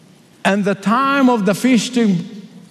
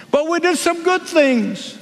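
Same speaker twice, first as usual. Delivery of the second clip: pleading foolish ones; 8 semitones higher than usual. Acted.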